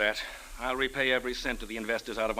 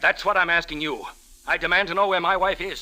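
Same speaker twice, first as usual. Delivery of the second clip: angry; 4 semitones higher, 4 dB louder than usual. Acted. Husband demands his wife.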